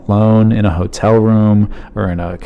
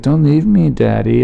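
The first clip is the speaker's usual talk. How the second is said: put-on higher, mildly sad little-kid plea; imitated sad child; 5 semitones higher than usual. Daughter asking dad not to go, imitated sad plea. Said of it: "getting, like, sad as she's saying it".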